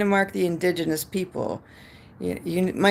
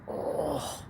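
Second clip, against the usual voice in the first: soft, breath-filled "oh" of dismay; pained cringe groan; 10 dB quieter than usual. Retold or imitated. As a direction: groan at a bad accent. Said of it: "the Canadian accent was like".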